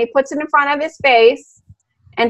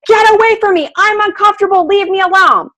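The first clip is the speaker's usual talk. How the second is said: higher, pleading voice of a scared dog; dog's plea; 6 semitones higher, faster than usual. Retold or imitated. Voicing the frightened dog for the class, high and pleading. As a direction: beg to be left alone. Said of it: "screaming everything he can to say".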